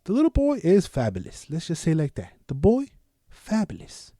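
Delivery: high, lightly camp lilt; a playful hint of flamboyance; flamboyant. Describing the little boy as fabulous, flamboyant. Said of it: "they say he's flamboyant".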